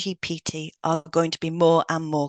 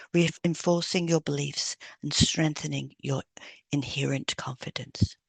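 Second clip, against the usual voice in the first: guided hypnosis read. Acted. Hypnotherapist reading a confidence script to a client, soothing. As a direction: lull the listener into calm confidence.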